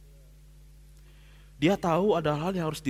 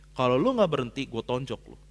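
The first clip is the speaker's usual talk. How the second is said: angry threat; 4 semitones lower than usual. Retold or imitated. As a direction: snap it at him like you mean it. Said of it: "keras nih saya". (ancaman marah yang diceritakan ulang)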